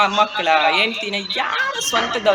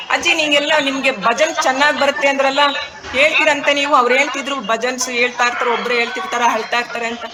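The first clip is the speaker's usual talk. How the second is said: ordinary delivery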